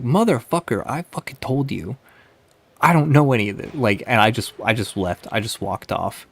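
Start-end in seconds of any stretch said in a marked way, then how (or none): 0.0-3.7 angry retort. Retold or imitated.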